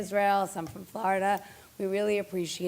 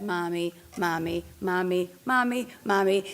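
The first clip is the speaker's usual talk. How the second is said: put-on repeated child's call for mom; imitating a child calling Mommy. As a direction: call Mommy over and over like a kid. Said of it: "even when it said".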